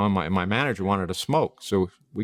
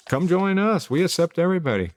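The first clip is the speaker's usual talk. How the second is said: much higher, bright welcoming invitation; friendly pastor; 9 semitones higher than usual. Retold or imitated. Pastor welcoming her outside the church, cheerful call. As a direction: beam at a stranger and call them in.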